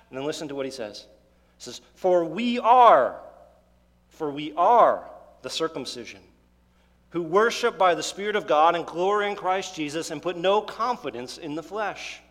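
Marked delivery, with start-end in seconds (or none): 1.9-12.2 emphatic proclamation. Acted. Preacher proclaiming Paul's declaration.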